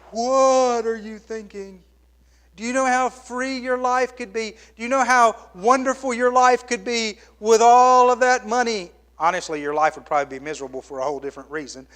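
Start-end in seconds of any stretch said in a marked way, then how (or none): 0.1-8.9 higher, incredulous scolding of a fool; exasperated onlooker. Retold or imitated. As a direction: plead with him, baffled, a touch high. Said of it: "We would just say".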